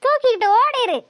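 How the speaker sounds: high, sharp, fed-up dismissal; irritated order. Acted. Mother handing over the file and telling her son to get lost, annoyed. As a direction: shove the file at him and send him off.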